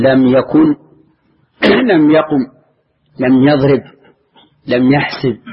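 each verb يكن، يقم، يضرب، يحسب ending on a bare consonant; final sukun. Shown as a demonstration. Teacher giving examples of the jussive rule, final sukun on يكن، يقم، يضرب، يحسب. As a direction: list يكن، يقم، يضرب، يحسب with no vowel after the last letter. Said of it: "وجب أن نسكنه".

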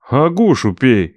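slow, curt cut-off; curt retort. Acted. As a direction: cut him off flatly, slowly. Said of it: "отрезал я".

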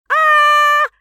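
пронзительный высокий громкий визг от испуга; визжать что есть силы. A narrator's reading. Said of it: "Визжим мы с Лариской как можно громче". (девушки визжат при виде драки, громко и пронзительно)

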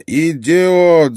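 loud, high burst of fury; angry yell. A narrator's reading. Ott explodes at the medic Gref, angry yell. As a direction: yell it as an enraged outburst. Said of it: "заорал Отт".

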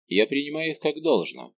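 надменно, свысока; с вызывающим превосходством; высокомерный тон. Acted. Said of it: "свойственным ему высокомерным тоном". (высокомерно принимает вызов)

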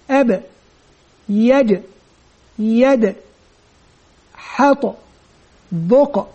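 each echoed consonant sounded out one by one, with a bounce at the end; qalqala examples. Shown as a demonstration. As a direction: let the final stop bounce, teacher demo. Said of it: "من حروف القلقلة".

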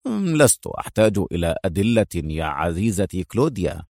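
low, even male voice; low calm certainty. Acted. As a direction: say it low and sure. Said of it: "قال أدهم في هدوء".

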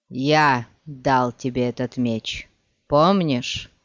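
slow, strained words of a beaten man; bitter defeated villain, speaking slowly; dying villain voice. Acted. (медленный голос поверженного злодея)

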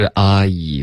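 "阿姨" run together as a long ah-ee; model I diphthong. Shown as a demonstration. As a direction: demonstrate the glide as "阿姨". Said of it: "就是阿姨的双元音".

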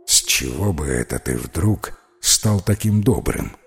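a sly spirit teasing its friend; ghost's voice. Acted. Привидение поддразнивает домового низким голосом.

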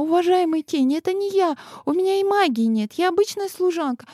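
high, anxious pleading, rushing; pleading servant girl. A narrator's reading. Servant girl pleading with the shadow, high and anxious. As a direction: convince them she's harmless.

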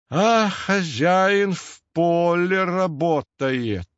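slow, rueful half-smile into the whiskers; wry, joyless chuckle. A narrator's reading. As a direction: say it with a bitter little smile. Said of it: "невесело усмехнувшись в усы". (невесело, с усмешкой, медленно)

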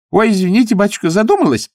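high, loud apologetic gabble; flustered chatter. Acted. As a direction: rattle off an apology. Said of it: "снова затараторила женщина".

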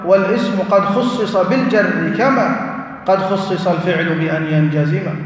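reciting Ibn Malik's verse. Shown as a demonstration. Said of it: "ماذا يقول ابن مالك؟".

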